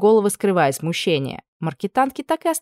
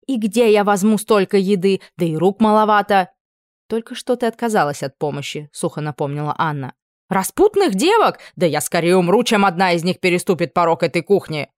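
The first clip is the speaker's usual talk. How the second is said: flustered outburst; 2 semitones higher, 4 dB louder than usual. Acted. Cook fussing, outraged.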